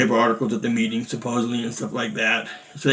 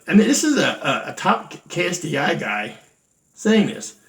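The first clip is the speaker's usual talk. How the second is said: shocked disbelief; 3 semitones higher than usual. Real, not acted. Disbelief at senior grandmaster's crude remark.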